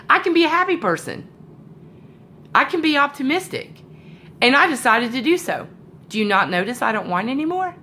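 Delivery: a hint of an earnest child; five-year-old daughter. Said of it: "five years old".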